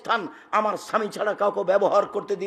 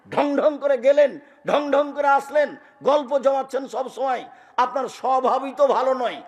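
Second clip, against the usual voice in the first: higher, reproachful nagging; scolding wife; 5 semitones higher than usual. Acted. Wife rebuking her husband, higher reproachful scolding. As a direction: scold him for his swaggering.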